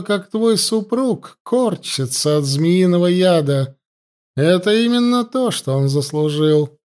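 высоко и медленно, зловещая жрица; тянет слова, упиваясь властью над пленницей; властная ситха. Acted. Ситха грозит царевне. (голос злобной жрицы, выше и медленнее)

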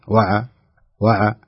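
وع with the ain jolted open; خطأ: وع متحركة; wrong bounced ain. Shown as a demonstration. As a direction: clip وع with a bounce. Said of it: "تحركت".

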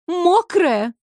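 high, drawn-out mocking Мокрая with falling end; sarcastic singsong. A narrator's reading. Water mocking Fire's word, sarcastic singsong. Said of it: "с сарказмом пропела вода".

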